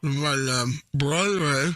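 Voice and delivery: slow, talking past a mouthful; muffled words around gauze; mouth full. Pretend. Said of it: "I have stuff in my mouth".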